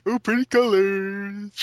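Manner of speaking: loud, drawn-out wacky voice. Acted. Mocking kids who don't understand, slow wacky voice. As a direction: put on a slow, goofy wonderstruck voice. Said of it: "I'm just doing a wacky voice".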